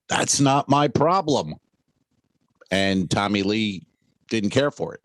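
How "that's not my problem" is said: original line. Shown as a demonstration. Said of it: "the original line in the script was".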